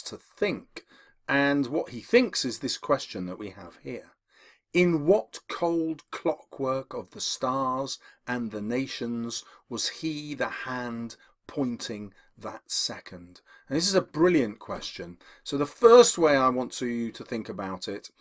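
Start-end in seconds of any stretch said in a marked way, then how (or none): 4.7-13.4 poetry reading. Acted. Quoting the poem's question.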